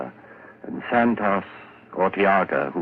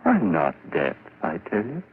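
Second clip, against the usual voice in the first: frantic insistence; 7 semitones higher than usual. Acted. Madman insisting he isn't deaf.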